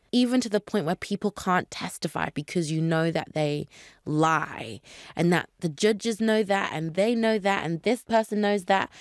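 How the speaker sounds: ordinary talk, nothing marked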